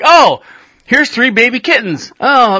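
high, sing-song mock voice with meows; hammed-up careless pet owner; mocking cat killer. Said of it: "I thought you were like".

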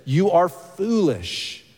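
slow, drawn-out mild scolding; exasperated rebuke. Retold or imitated. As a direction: spell out the reproach very slowly. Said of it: "His exasperation and his language".

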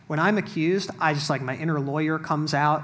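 ordinary talk, nothing marked

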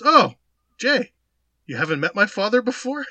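imitated friend piping up, high and loud; high-pitched, innocent-sounding "meet my father"; mock-cheerful introduction; retold introduction. Retold friend making an awkward introduction.

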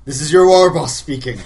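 loud orc warlord sign-off; orc war boss voice. Acted. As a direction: end the speech like an orc chief. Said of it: "You trying to sound like an orc".

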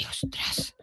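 awed whisper under the breath. Real, not acted. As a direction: breathe it out in awe.

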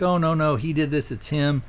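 a touch of alarm in a retold quote; retold panic. Woman at the fallen tree blaming her abductor, mildly panicked. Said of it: "She's panicked".

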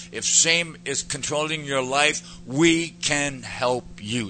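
mocking quote. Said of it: "Here's what they say".

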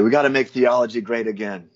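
lightly done, bad politician impression; half-hearted mimicry of a campaign speaker; horrible Trump imitation. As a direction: badly imitate a campaign slogan delivery. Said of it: "that was a horrible, uh, imitation".

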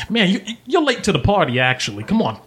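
lightly voiced chummy rogue; Sly, chummy. Sly drawing Domino aside, chummy. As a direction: coax a friend along, voice lifting in places.

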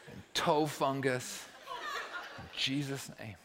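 hushed, reverent prayer with laughter breaking in by the end; a soft tongue-in-cheek prayer asking for perfect toenails; mock earnest prayer. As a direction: pray softly as if it's serious, then crack up.

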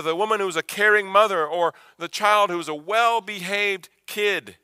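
preacher's rising list; building preaching. Real, not acted.

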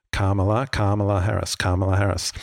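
Kamala as karma plus la; measured, repeated demo of Kamala as KAR-ma-la; correct pronunciation. Shown as a demonstration. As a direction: say Kamala with a long first "ah", stressed like karma. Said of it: "So you think of karma".

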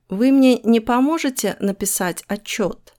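gently asking, with не; polite request. Shown as a demonstration. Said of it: "is more polite".

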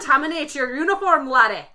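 loud, hammed-up Scottish order ending on laddie; insisting his Scotty voice is Scottish, loud brogue; Scottish accent. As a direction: bark it like a stage Scottish engineer. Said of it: "That was Irish".

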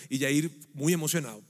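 dry sarcasm about an unimpressed friend; sarcastic. Real, not acted. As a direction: say it deadpan, meaning the opposite. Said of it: "Es sarcasmo lo que estoy diciendo".

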